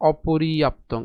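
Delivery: অপর্যাপ্তং said as o-po-ri-ap-tong; slow, careful অপর্যাপ্তং; pronunciation demo. Shown as a demonstration. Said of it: "এর উচ্চারণ কেমন হবে?".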